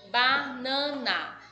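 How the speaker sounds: slow Banana, leaning on the "nan"; stress on the middle syllable. Shown as a demonstration. Teacher showing pupils the stressed syllable, slow and emphatic. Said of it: "o nan é a mais forte".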